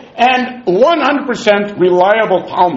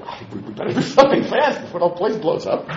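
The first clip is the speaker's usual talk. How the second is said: laughing worry; 6 dB quieter than usual. Retold or imitated. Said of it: "heard about it".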